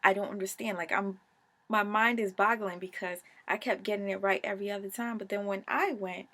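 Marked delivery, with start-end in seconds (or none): 0.0-0.8 louder, baffled protest; raised, disbelieving protest; mock outrage. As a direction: protest at the dealer, loud. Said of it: "So I'm like".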